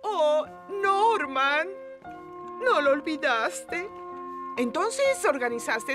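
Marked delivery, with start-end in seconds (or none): 0.0-1.7 slow, drawn-out delighted exclamation; moved by her son's surprise; touched. Acted. Mother touched by party.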